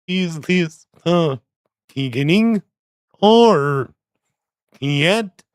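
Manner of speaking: slow, warped backwards-played speech; backwards-talk voice. Friend imitating Twin Peaks backwards talking. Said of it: "talk like you're talking backwards, played forwards".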